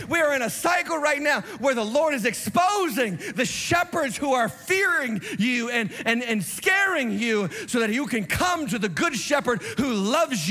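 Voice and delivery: rising, driving sermon cadence that builds to shouts; fiery preaching. Acted. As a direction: preach it hard to the flock, swelling on key lines. Preaching to congregation.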